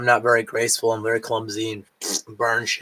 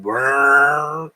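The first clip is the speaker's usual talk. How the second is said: engine noise; 4 dB louder than usual. Retold or imitated. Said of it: "And I was like".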